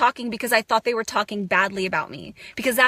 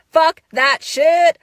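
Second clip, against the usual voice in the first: higher, louder, slow laughing shout; 5 semitones higher, 8 dB louder, slower than usual. Real, not acted. Rejecting her old habits: laughing shout. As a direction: throw it out loud with a laugh.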